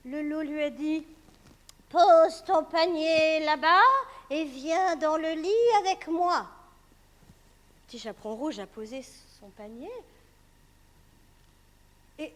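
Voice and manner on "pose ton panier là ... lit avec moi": slow, louder, coaxing; wolf's fake granny. Wolf luring the girl into bed. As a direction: lure her in slowly.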